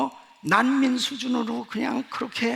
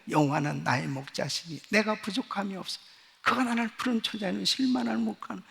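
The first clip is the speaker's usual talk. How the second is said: softer, murmured recitation to oneself; quiet personal confession. Retold or imitated. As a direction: confess the psalm privately, softly. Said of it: "매일 매 시간마다 고백을".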